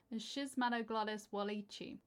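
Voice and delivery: A Schismatoglottis walichi in an American accent. Shown as a demonstration. Copying the YouTube video, saying A Schismatoglottis walichi in an American accent. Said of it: "it comes up in an American accent".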